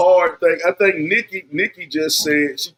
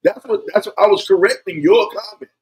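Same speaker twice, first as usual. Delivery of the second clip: loud sharp voice; 10 semitones higher, 4 dB louder than usual. Real, not acted. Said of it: "Why are you yelling?".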